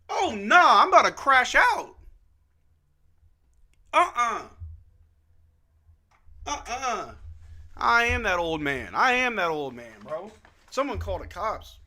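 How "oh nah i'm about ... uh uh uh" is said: louder and higher indignant protest; about to lose it; real exasperated rant; fed-up outburst. Real, not acted. Kids parked by his house.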